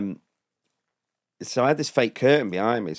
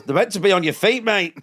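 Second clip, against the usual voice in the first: high sock-puppet heckle; falsetto sock puppet; 11 semitones higher, 4 dB louder than usual. Retold or imitated. Sock puppet to a passer-by, high-pitched heckle. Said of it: "the falsetto sock thing".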